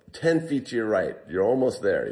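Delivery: half-strength mock yell upward; retold yell. Trapped climber directing the rope crew, mild retold yell. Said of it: "So I yell up".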